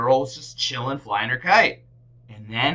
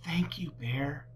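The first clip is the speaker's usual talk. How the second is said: soft slow whisper; whispered thanks; 3 semitones higher, 9 dB quieter than usual. A narrator's reading. Girl whispering thanks to Bear. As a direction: breathe it gently. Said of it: "the girl whispered".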